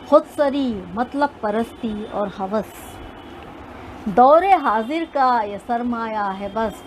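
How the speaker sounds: measured recital of couplets; poetry recitation. Acted. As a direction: recite like a poet on stage.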